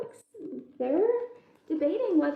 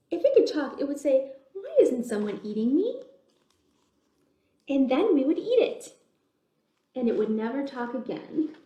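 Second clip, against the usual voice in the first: chatty bug voices; 4 dB louder than usual. Acted. Bugs argue with themselves.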